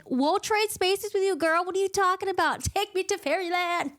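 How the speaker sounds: high, slowed, laughing plea; eager readers. Retold or imitated. Readers begging Farrah to swap into fairyland, high laughing plea. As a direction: beg her to swap places, giggling. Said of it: "the rest of us who are readers were like".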